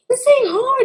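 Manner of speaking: emphatic whispered aside. Real, not acted. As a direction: hiss it out like a secret you want everyone to hear. Stressing a point to Karen.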